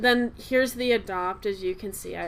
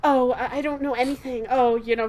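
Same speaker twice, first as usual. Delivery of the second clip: slightly higher, mock-helpless voice; a hint of ditzy innocence; clumsy, gullible girl; 3 semitones higher, 4 dB louder than usual. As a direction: play the clueless ship character lightly. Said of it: "like, clumsy and".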